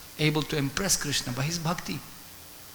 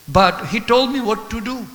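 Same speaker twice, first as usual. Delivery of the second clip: louder and higher, earnest and devoted; fervent insistence; 5 semitones higher, 8 dB louder than usual. Acted. Brahmana insisting to Chaitanya Mahaprabhu, fervent and loud.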